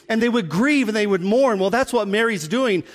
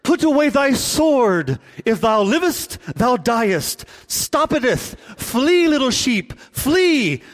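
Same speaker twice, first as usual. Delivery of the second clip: lofty pious mock sermon voice; hammed-up biblical Jesus, rising on flee; mock King James Jesus; slower than usual. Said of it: "sometimes we read the Bible this way".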